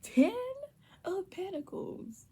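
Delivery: high, slow, thrilled whisper; excited whisper. Real, not acted. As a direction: hold back a scream, whisper it. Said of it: "I can't get too loud 'cause I'm, I'm literally screaming on the inside".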